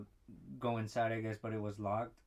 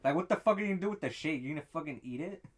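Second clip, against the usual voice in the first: louder, higher, fast mock disbelief; mock incredulous rant; 4 semitones higher, 5 dB louder than usual. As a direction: rant at the absurd order, fast and loud. Mocking the shake order.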